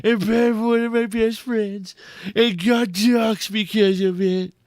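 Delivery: reading the message as Trump. Retold or imitated. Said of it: "I'm gonna read it in the voice of Trump".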